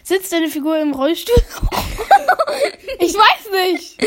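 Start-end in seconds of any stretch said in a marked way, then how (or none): 1.3-4.0 said through laughter; giggling out the words; laughing. Real, not acted. Laughing after the wheelchair question.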